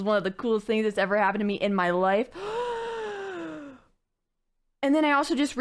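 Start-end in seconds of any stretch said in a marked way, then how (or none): 2.4-3.7 excited gasp. Real, not acted. Excited over the personalised gift.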